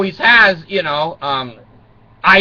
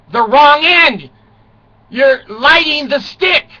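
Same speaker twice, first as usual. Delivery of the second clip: daughter's voice; 8 semitones higher, 6 dB louder, slower than usual. Retold or imitated. Daughter voiced correcting dad.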